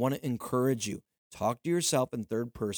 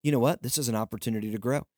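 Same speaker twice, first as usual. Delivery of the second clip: higher, upbeat self-encouragement; cheerful reframing pep talk to yourself; 4 semitones higher than usual. Shown as a demonstration. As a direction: talk yourself into seeing the opportunity. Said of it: "I want you to start saying".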